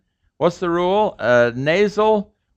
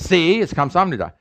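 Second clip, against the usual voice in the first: higher, triumphant mock "see"; vindicated learner; 4 semitones higher than usual. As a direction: gloat lightly that you were right. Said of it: "And the first guy says".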